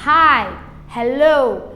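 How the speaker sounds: "Hi, hello" with a clearly puffed H; aspirated H. Shown as a demonstration. Teacher models English greetings, "Hi, hello" with aspirated H. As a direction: say "Hi, hello" with H like Brazilian R. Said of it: "faz o som do nosso R".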